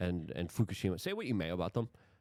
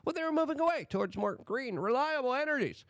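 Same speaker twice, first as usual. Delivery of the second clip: sarcastic. Pretend. Mocking green energy claims.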